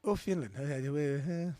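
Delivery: improvised mock-Finnish babble; Finnish accent. Shown as a demonstration. Co-host unsure of Finland in the accent game, Finnish accent. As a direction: fumble through a made-up Finnish accent. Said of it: "it sounded very Finnish".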